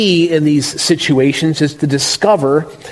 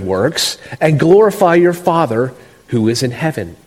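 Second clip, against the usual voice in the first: solemn pulpit reading of the text; scripture reading. Acted. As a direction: read the passage with reverent weight. Pastor reads scripture aloud.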